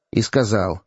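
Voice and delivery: usual speaking voice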